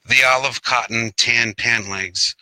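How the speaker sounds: measured verse, broken into short phrases; poetry reading. Acted. Poet reads Robert Frost Chinos to online audience, poetry reading. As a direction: recite it with small pauses between images. Reads own poem aloud.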